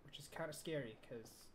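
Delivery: soft, hushed nervous voice; quiet and scared. Real, not acted. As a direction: speak low, as if enemies are near. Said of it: "I'm kinda scared too".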